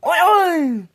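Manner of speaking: high, loud two-note whoop; Indian-style war call. Retold or imitated. Repeating exactly how he made his call, high Indian-style whoop. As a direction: holler it out as a signal. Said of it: "that's exactly how I did, like an Indian".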